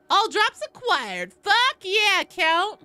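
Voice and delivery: loud, high whoop of victory; loud triumphant yell at the loot; excited cheer. Real, not acted. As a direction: celebrate the drops out loud. Celebrating loot drops.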